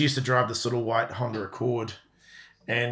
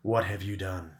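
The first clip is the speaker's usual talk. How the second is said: low, soft, stern question; a hint of quiet menace; quiet stern mum; 4 semitones lower, 5 dB quieter than usual. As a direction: son retelling his mother's first reaction. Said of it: "just quietly".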